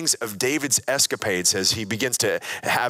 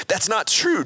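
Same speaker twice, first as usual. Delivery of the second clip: mild protest in raised pitch; 10 semitones higher than usual. A narrator's reading. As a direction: push back gently, pitched a little higher. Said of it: "Jonathan protested".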